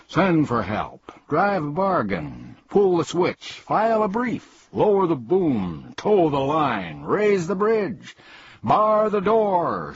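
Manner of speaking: high, drawn-out calls, climbing in pitch; excited shout. A narrator's reading. Bug jumping about waving his arms, shouting. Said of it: "shouted the bug".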